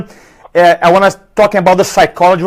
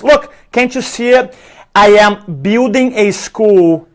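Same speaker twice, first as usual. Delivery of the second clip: super happy; 3 semitones higher, slower than usual. Acted. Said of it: "Dancing and jumping".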